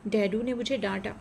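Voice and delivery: crying. A narrator's reading. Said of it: "Swarna रोते हुए कहती है".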